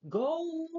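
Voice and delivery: long, high, loud mock yell; shouted order. Boss sending Peter off on a delivery, loud high shout. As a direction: bellow it as an order, drawn out.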